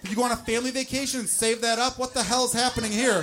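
loud, high, disbelieving rant; hammed-up fury at the mess; mock outrage. Ranting at the load.

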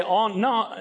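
high, mock Northern denial; put-on northern accent. Peter hides his Galilean origins, faked Northern accent. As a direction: fake a Northern accent to deny it. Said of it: "try to speak in his northern accent".

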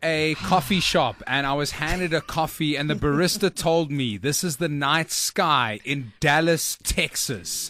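measured, dramatic storytelling; slow down as the tale turns mysterious; deliberate mock-suspense narration, sinking at the end; story narration. Performs own opening of the story.

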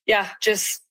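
slightly hoarse, worn-out voice; a bit hoarse from celebrating. Real, not acted. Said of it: "I lost my voice a little bit".

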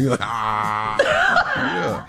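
mock southern boyfriend. Host voicing the boyfriend to the caller, lightly done. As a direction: talk like the hillbilly boyfriend. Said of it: "hard to hold that little character".

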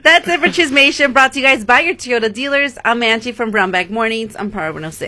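radio sign-off. Acted.

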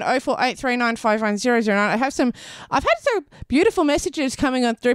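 normal talking voice

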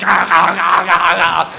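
repeated snapping growl noises; sharks chomping. Acted. Comic playing thirty sharks, repeated chomping noises. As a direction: imitate a pack of sharks gnashing. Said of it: "thirty sharks just going".

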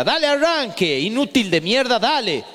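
impatient barking dad; gruff father. Retold or imitated. Father barking at son on first driving lesson, impatient. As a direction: snap at the kid behind the wheel.

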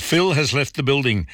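hammed-up Las Vegas accent, like announcing a famous singer has gone. Reading a listener's joke to Mike, in a hammed-up Las Vegas accent. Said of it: "this is my best Las Vegas accent".

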